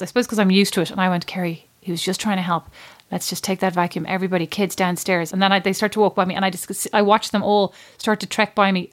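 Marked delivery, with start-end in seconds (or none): 1.3-5.3 weirdly calm. Retold or imitated. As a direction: keep it calm and take charge. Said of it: "weirdly calm in these moments".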